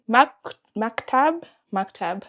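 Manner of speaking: "Maktab" said slowly with stress on MAK, rising; "Maktab" as Swahili MAK-tab, slow and careful; careful pronunciation. Shown as a demonstration. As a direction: spell out "Maktab" syllable by syllable. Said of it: "I put the definition here".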